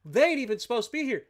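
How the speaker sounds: can't believe they showed up; fast, high, indignant disbelief; outraged disbelief. Real, not acted. Enemy appears out of nowhere.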